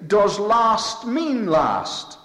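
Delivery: slow, high mocking challenge; cynical question. Preacher mocking the doubters' cynical question. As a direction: sneer it as the doubters do. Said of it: "they ask very cynically".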